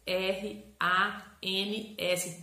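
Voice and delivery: T, R, A, N, S letter by letter, slowly; slow, deliberate letter names; spelling out. Shown as a demonstration. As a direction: spell TRANS with a gap after each letter. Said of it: "tudo numa sílaba só".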